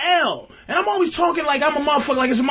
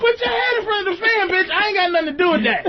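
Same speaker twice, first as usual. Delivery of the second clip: laughing retort; 5 semitones higher, faster than usual. Retold or imitated. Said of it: "it's like".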